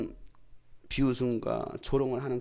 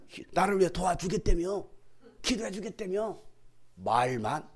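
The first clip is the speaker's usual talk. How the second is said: understated accusing questions; resentful reproach. Retold or imitated. Believer to church members, mildly resentful reproach. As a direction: needle them over broken promises. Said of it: "막 원망하기 시작해요".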